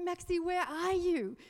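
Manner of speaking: high, loud panicked call to her son; frantic, calling out to Maxie. Retold or imitated. Mother panicking on the phone to her son, high and frantic. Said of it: "there's panic in my voice".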